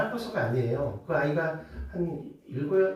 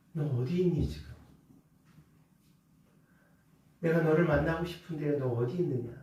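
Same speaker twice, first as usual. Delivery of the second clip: longing call. Retold or imitated. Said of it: "이런 의미가 아닙니다".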